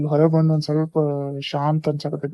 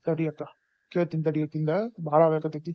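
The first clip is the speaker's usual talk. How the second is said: soothing hush; 5 dB quieter than usual. Acted. Brother calming his upset sister.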